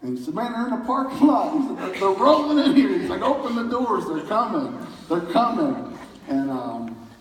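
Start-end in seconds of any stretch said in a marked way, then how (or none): 0.3-6.0 high, loud, breathless retelling of Brian's excitement; excited shout. Retold or imitated. Usher telling the pastor the people are arriving, high and loud with excitement. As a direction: burst out with the good news, half laughing.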